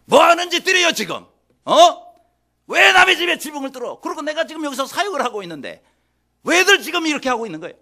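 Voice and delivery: high, loud, indignant telling-off; angry scolding. Acted. Teacher interrupted as his roof is torn open, angry scolding. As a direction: raise the pitch and scold them indignantly. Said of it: "화를 내시면 어떡하냐".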